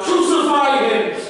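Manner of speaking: preacher imitating a shouting crowd; retold crowd shout. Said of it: "the crowd shouted out".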